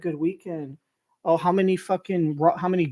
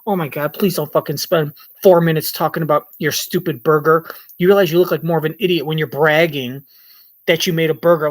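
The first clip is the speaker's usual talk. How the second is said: exasperated inner rant; 8 dB louder than usual. Retold or imitated. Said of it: "sitting here thinking".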